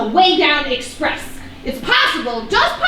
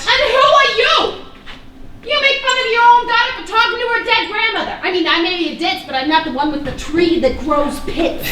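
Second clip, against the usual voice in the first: mouthy tone; 4 semitones higher than usual. Acted. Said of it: "in that tone of voice".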